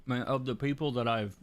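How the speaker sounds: talking around ice in mouth; mouth full. Real, not acted. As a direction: speak with ice in your mouth. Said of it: "sorry, I got ice in my mouth".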